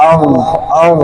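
আউ said with the ghain held as a continuous voiced throaty rasp; voiced sakin ghain. Shown as a demonstration. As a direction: keep the voice running through the ghain in আউ. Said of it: "এই যে একটা আওয়াজ".

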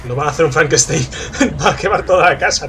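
laughing through the words; chuckling while talking. Real, not acted. Laughing while talking about enemies.

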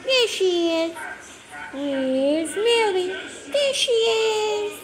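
peekaboo sing-song. Real, not acted. Peekaboo game with toddler.

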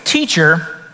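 lawyer's trap question. Retold or imitated. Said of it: "a question he's gonna trap Jesus with".

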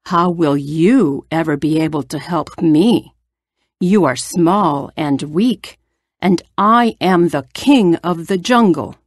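a big lion scoffing at the tiny mouse; the king of the jungle, lightly voiced and scornful. Lion voiced in read fable.

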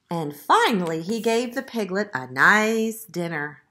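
measured, expressive picture-book reading; story narration. A narrator's reading. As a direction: read it to young children, stressing key words. Reads the story aloud.

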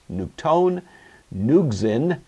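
"nuktone, nuxin" accented on the endings, nuk-TONE, nux-IN; stress on last syllable. Shown as a demonstration. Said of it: "the accent is going to shift to the ultima".

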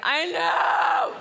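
sudden loud high yelp of recognition; excited shout. Retold or imitated. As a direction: blurt it out like you've caught the sound. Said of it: "And you're like".

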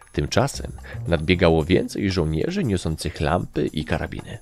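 plain reading voice

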